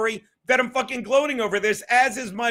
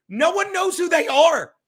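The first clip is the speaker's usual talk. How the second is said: normal talking voice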